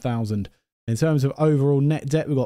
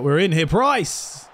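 rising, higher-pitched burst of hope; excited match yell; 5 semitones higher, slower than usual. Real, not acted. Player calls out to Price as they get in, excited. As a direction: cry out as the chance opens. Chance opens during the match.

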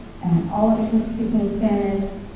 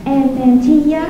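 higher, sing-song mock teacher; higher, pleased teacher voice; teacher having an insight; 5 semitones higher, slower than usual. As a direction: play the teacher's bright discovery. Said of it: "she said".

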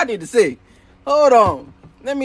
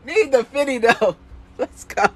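laughing. Real, not acted. Rereads comment, cracking up.

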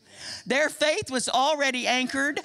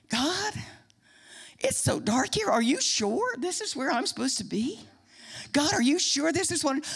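mock timid doubt; 3 dB quieter than usual. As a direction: act out a hesitant, worried question to God. Acts out doubting prayer in dark.

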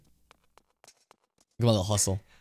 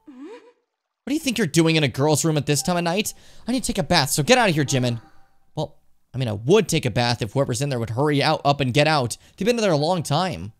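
higher-pitched scolding character voice; indignant girl character; 4 semitones higher than usual. Acted. Girl telling Jimin to get out before her bath, higher indignant voice. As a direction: pitch it up and shoo him out.

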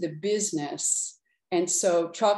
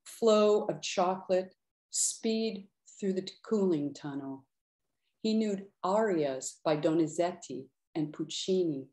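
measured, unhurried poetry reading; poem reading. Acted. Poet reading her poem for Paolo to an audience, measured. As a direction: linger on the images with pauses.

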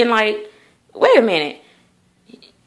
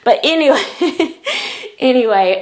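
breaking into a giggle; laughing; 3 semitones higher than usual. Real, not acted. Laughing at herself while closing the blinds, giggling. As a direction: laugh at your own aside. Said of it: "laughs at herself".

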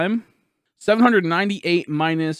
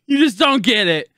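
anguished retort; 2 semitones higher, 3 dB louder than usual. Real, not acted. Retort to chat before screaming it.

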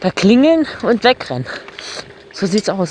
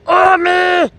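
very high, loud whoops; excited whoop; 11 semitones higher, 5 dB louder, much slower than usual. Real, not acted. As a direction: whoop with delight. Rider whooping on motorbike.

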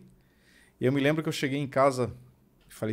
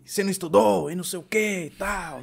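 gruff scolding; 8 semitones higher than usual. Retold or imitated. Rough teacher scolding a child.

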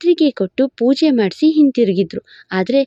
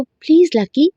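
higher, coy and flirty; coquettish; 4 semitones higher than usual. Acted. Flirty coworker handing boss coffee, coy higher voice. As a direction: simper it to charm him. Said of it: "ಎಂದು ನುಲಿಯುತ್ತಾ ಕೊಡ್ಬೇಕು".

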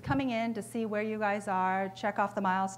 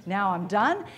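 relieved glee; 4 dB louder than usual. Retold or imitated. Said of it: "He's like".

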